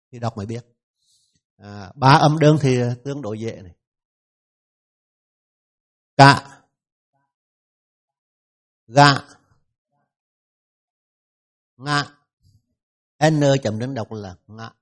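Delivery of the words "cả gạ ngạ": "Cả, gạ, ngạ" read one by one as short, separate model syllables; đọc mẫu phụ âm. Shown as a demonstration. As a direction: model "Cả, gạ, ngạ" slowly with long gaps between. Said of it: "Nghe thầy đọc trước". (đọc mẫu từng âm "Cả, gạ, ngạ", ngắn và tách rời)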